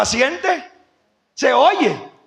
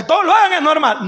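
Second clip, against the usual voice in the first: plain; 4 semitones higher than usual. Shown as a demonstration. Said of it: "repite la frase con énfasis".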